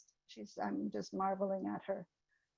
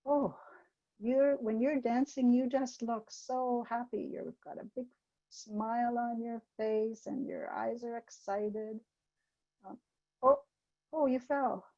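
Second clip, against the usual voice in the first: put-on gentle teacher to child; 3 semitones higher than usual. Shown as a demonstration. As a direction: coax and comfort the child as you name her feelings. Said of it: "take the opportunity to do some emotional literacy development".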